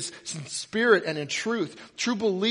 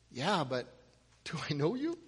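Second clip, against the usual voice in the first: soft, halting question with a rise; puzzled reply; 6 dB quieter than usual. Acted. Quarterback to the shouting fan, puzzled. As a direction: break it up, doubtful. Bemused Durant answers again.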